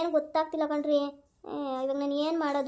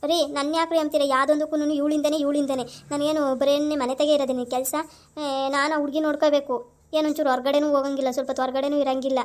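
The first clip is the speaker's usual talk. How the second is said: louder and indignant, firing back; angry retort; 3 dB louder than usual. Acted. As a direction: defend yourself hotly against his blame. Wife hits back at husband. (ಕೋಪದಿಂದ ಗಟ್ಟಿಯಾಗಿ ತಿರುಗಿ ಮಾತಾಡುವುದು)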